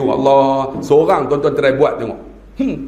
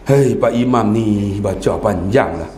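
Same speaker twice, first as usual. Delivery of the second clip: low, slow, drawn-out grumble; grumbling complaint; 9 semitones lower, slower than usual. Acted. Restless worshipper cursing the long-reading imam, grumbling. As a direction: drag it out like a fed-up worshipper. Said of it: "Maki macam-macam".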